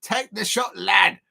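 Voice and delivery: tentative Scouse imitation; Scouser accent. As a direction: imitate a Liverpool fan's accent, lightly. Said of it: "I think that's the Scouser accent".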